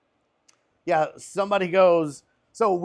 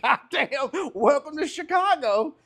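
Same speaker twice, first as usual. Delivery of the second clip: laughing disbelief; 12 semitones higher, 3 dB louder than usual. Retold or imitated. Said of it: "but he was like".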